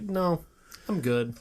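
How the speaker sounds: mock British accent, hammed-up; badly faked British accent. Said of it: "attempt a really bad British accent".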